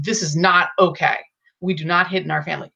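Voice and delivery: firm and matter-of-fact, a clear statement; no-nonsense tone, quick and level; businesslike. Shown as a demonstration. Parent setting a rule after being hit, firm statement. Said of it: "make your voice really business".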